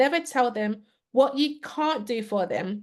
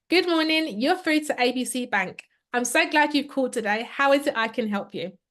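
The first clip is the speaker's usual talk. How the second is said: uplifting greeting. Shown as a demonstration. Bank agent greeting a caller with an uplifting tone. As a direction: sound glad they called. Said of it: "I'm going to do two greetings".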